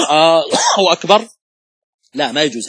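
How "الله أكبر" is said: "الله" with its opening hamza drawn out long and slow, like a question; slow demo of the forbidden lengthened hamza in "الله"; wrong long hamza. Shown as a demonstration. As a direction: stretch the first "آ" of "الله" slowly, as the mistake to avoid. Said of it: "ما تقول".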